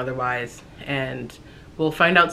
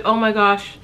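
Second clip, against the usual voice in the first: higher, lightly teary retelling of the mother-in-law's words; mild mock crying, sweet and sympathetic; imitating tearful mother-in-law; 4 semitones higher than usual. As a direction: echo her weepy sympathy, only a touch of tears. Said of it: "She immediately starts crying".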